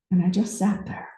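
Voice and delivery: soft, trailing into breath; hushed reflection. Real, not acted. Speaker recalls sitting alone above the ocean, hushed. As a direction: softly let it settle.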